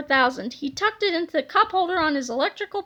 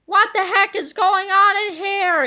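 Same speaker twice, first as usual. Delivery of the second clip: angry yell; 4 semitones higher, 5 dB louder than usual. Acted. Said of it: "yelled the angry-looking hero".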